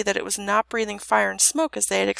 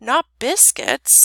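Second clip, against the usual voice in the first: slow, higher, gently coaxing question; tender; 5 semitones higher, 5 dB louder, much slower than usual. A narrator's reading. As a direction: ask it tenderly, drawn out. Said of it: "said the princess tenderly".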